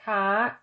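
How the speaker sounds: ka held high, Thai high tone; ka pitched high and slow. Shown as a demonstration. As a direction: lift ka up high. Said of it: "the tone is high, as in".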